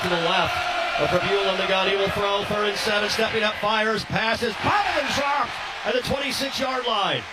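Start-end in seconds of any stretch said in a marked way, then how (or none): 4.0-7.2 excited call. Real, not acted. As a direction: react fast to the bobbled catch. Receiver drops third down pass.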